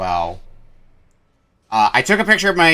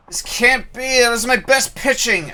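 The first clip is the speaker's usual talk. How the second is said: higher stunned disbelief; 13 semitones higher than usual. Acted. Drunk NPC loses, shocked.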